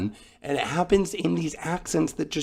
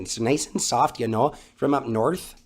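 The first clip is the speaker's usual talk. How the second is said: put-on Minnesota accent. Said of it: "That's pretty good, too".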